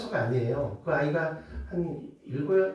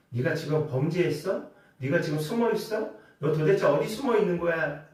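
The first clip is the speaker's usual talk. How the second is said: louder, accusing questions; angry God; 3 semitones higher, 4 dB louder than usual. Retold or imitated. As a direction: interrogate the hiding man. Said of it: "하나님께서 화가 나셔서".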